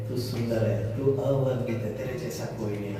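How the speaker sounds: quiet devotion in worship; tender worship words. Shown as a demonstration. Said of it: "खुदा तक कहेंगे".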